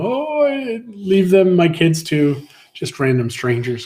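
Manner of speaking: hammed-up high, loud wail easing off; mock sobbing. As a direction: imitate a tearful mother parting from her kids. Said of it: "Christy's sobbing, like, just sobbing".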